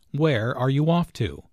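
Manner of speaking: "Where are you off to?" with a falling end; a plain information question, "off to" going down; falling intonation. Shown as a demonstration. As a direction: drop the pitch through "off to". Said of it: "Notice the falling intonation".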